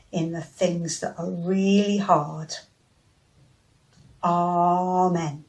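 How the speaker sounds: slow, gentle spoken prayer. Acted. Leads children in prayer.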